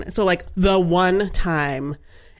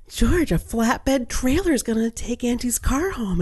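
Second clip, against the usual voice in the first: excited mother; 5 semitones higher, slower than usual. Retold or imitated. Sister voiced telling her son.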